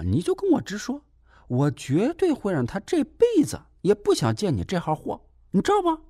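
high-pitched, needling caretaker voice; a nosy caretaker scolding him sarcastically; shrill, snide lecture from the caretaker; snide nurse. Acted. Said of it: "不阴不阳地说".

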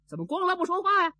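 high, loud and fast, pushed through laughter; the same question squeezed up high and quick; high laughing servant voice. A narrator's reading. Servants laughing too hard to answer, high rushed voice. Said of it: "怎么只乐不说话呀".

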